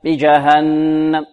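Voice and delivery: slow "بجهنم", held n, then a brief final m; cut-short final mim. Shown as a demonstration. Teacher repeating the faulty stop, cut-short final mim. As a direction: close "بجهنم" too quickly on the m. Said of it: "لا نقول".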